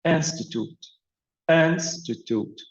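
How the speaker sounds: "institute" with the stress on its first syllable, IN-sti-tute. Shown as a demonstration. Teacher demonstrating first-syllable stress to students, "institute" stressed on IN. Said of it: "So the stress on the first syllable".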